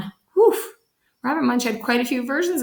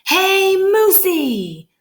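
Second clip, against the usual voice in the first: high, loud yell across the yard; 12 semitones higher, 5 dB louder, much slower than usual. Acted. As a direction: shout to grab the moose's attention. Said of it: "and yelled".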